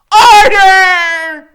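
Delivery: huge high bellow; full-throated judge's yell; shout. A narrator's reading. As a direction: roar it to silence the room. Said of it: "he shouts".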